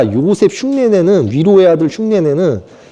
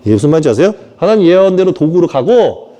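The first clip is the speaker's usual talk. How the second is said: ordinary delivery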